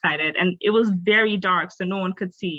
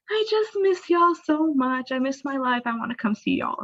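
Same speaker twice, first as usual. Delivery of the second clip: retold tearful plea; 7 semitones higher than usual. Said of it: "just crying".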